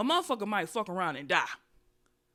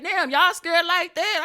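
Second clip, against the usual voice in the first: mock surprise; 8 semitones higher, 9 dB louder, slower than usual. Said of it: "I said".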